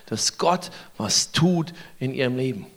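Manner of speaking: hushed emphasis. Real, not acted. Preacher driving home the sermon's point, hushed. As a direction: lean in and say it softly.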